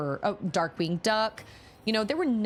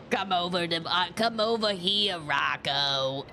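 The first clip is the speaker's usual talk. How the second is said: Missus Big Head. Retold or imitated. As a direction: croon in a New York accent. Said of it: "put on, like, a New York accent, I can sound like Missus Big Head".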